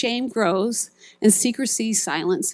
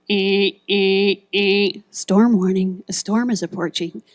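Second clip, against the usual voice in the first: storm warning alarm; 5 dB louder than usual. Retold or imitated. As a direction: blare it like a siren over the PA. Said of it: "and it went".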